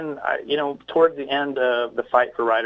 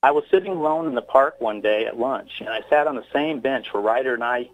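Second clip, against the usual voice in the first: earnest poem read with a touch of grief; father reading his poem about his lost son, earnest recital. Acted. Poet reads his poem aloud.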